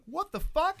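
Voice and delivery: high, loud startled outburst; retold shock. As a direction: yelp it in alarmed disbelief. Retells shock as cops swarm.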